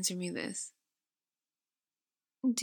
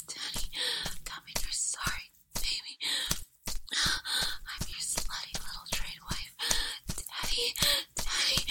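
whispered begging; 12 semitones higher than usual. Acted. Sudden whispered pleading inside the climax.

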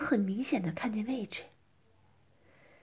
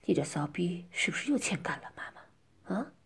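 angry; 5 semitones lower than usual. Acted. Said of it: "生气地对着我说".

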